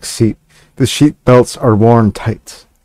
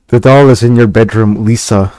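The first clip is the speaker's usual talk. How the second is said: mildly raised call to Lisa; exclamation. Acted. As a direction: parent calling the daughter upstairs, slightly raised. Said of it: "Exclamation mark".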